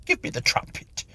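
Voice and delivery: high pleading whisper; miserable whisper. Acted. The caught medium begging for the trumpet, miserable whisper. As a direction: beg under your breath. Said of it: "whispered the miserable medium".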